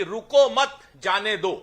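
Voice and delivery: "रुको मत जाने दो" spoken as the ambiguous test phrase; comma pause demo. Shown as a demonstration. Panelist showing the anchor how a comma matters, demonstrated phrasing. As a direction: say "रुको मत जाने दो" as one example sentence. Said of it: "इसमें कॉमे का फर्क होता है".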